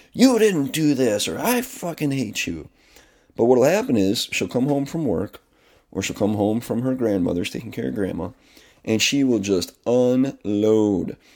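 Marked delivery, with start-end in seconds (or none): 0.1-2.6 imitated, put-on screaming, slower. Describing what she does not scream at him, imitating someone screaming. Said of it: "She's not screaming at me like".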